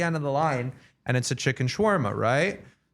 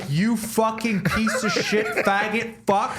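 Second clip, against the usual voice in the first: retold angry outburst; 6 semitones higher, slower than usual. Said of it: "I lose my fucking mind".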